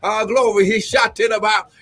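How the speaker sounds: fervent prophecy with exclamations of glory; prophetic preaching. Acted. Prophet releasing a word to the apostle, fervent preaching. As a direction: preach it as an urgent personal word.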